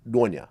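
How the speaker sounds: Nonya with a tongue-flipped first sound; Russian soft first sound. Shown as a demonstration. Host showing his dad's Russian name, tongue-flipped Nonya. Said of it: "that first letter, it's like a L".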